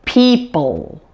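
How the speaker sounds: PEOPLE ending in a long dark L. Shown as a demonstration. Teacher giving example words, dark L ending PEOPLE. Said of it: "dark L at the end of words".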